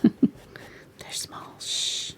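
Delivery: playful hush with a laugh; whispering. Real, not acted. Painter giggling and shushing while whispering. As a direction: shush softly, teasing. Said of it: "I don't know why I'm whispering".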